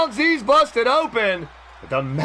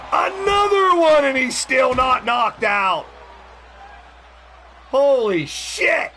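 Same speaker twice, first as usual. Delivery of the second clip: excited shout; 3 semitones higher than usual. Real, not acted. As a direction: call the near-fall at full pitch. Live wrestling play-by-play climax.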